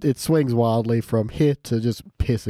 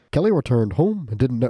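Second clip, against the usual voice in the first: bad New Zealand accent attempt; half-hearted Kiwi accent; 2 semitones higher than usual. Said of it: "I'll see if I can do the accent".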